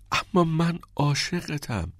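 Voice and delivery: drawn-out heartfelt protest; love confession. A narrator's reading. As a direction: declare your love slowly, pleading.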